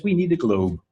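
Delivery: globe starts high and falls; falling list intonation. Shown as a demonstration. First participant in the memory game, falling on globe. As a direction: bring "globe" down as the last item. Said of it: "where the intonation falls".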